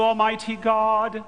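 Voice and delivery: ordinary talk, nothing marked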